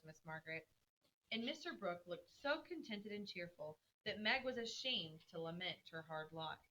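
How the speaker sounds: measured classroom story reading; story read-aloud. Acted. Teacher reads the chapter aloud to the class, storytelling.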